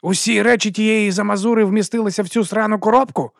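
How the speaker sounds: high, loud and furious; angry boss. Acted. Boss sneering at the dead woman's belongings, furious and loud. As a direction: spit out the contempt for the box. Boss fumes over the box.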